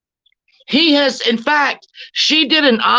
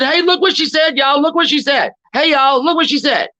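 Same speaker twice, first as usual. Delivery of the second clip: mocking tattler; 5 semitones higher than usual. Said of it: "He's the one that said".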